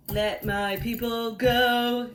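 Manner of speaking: slow, loud proclamation; loud demand. Acted. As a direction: draw it out as a firm command. Moses makes his demand.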